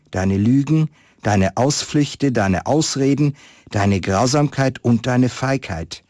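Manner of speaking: calm storyteller reading a Christmas tale; story narration. Acted. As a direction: read it like a story to listeners. Reads a Christmas story aloud. (Weihnachtsgeschichte vorlesen, ruhig erzählend)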